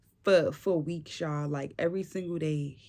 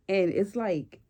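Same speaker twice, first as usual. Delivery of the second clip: louder, genuinely amazed; real surprise; 3 semitones higher, 5 dB louder than usual. Real, not acted. Telling viewers about pushing the placenta, a real surprised outburst. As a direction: let the surprise burst out. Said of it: "I sound surprised, but it's because I am".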